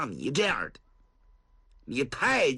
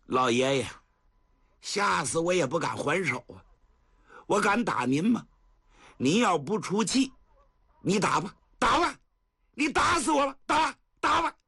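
mocking defiance; 5 semitones higher than usual. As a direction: goad the old man to strike. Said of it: "仍然在冷笑". (冷笑着激他打)

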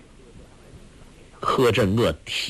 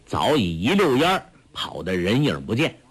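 usual speaking voice

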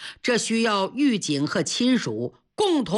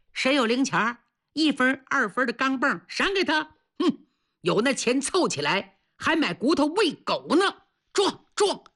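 jeering; 3 semitones higher than usual. Acted. Cellmates goading a man to ram the wall, mocking. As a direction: taunt him, pitch jumping on the last words. Cellmates jeer and goad him.

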